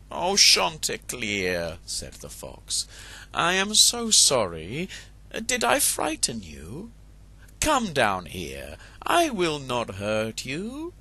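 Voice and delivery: a sly, gentle fox; sweet-talking fox. Acted. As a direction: lure the rooster down. Fox coaxes rooster down.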